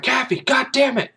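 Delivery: high, sharp exasperated cry; exasperated outburst. Retold or imitated. Prosecutor hisses at Kaffee in mock exasperation. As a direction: snap at your friend in frustration. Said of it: "He's like".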